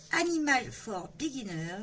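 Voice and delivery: English title in a real French accent. Real, not acted. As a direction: read the English words with French pronunciation. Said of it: "Désolée pour mon accent".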